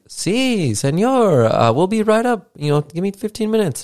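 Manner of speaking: put-on very high Hispanic-accented room service voice; mock Hispanic accent. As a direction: imitate an obliging Hispanic hotel worker. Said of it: "supposed to be a Hispanic accent".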